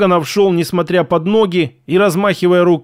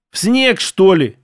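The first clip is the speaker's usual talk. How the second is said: indignant; 2 semitones higher than usual. Acted. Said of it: "возмутился".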